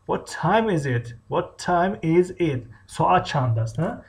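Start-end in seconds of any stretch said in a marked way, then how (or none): 0.1-2.6 slow, clearly separated words; careful language-lesson enunciation; teacher modelling. Shown as a demonstration. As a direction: say the question slowly for beginners. Teacher repeats phrase for learners.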